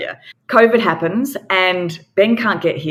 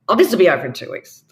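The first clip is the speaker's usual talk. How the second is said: mock Australian; much faster than usual. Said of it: "very Australian".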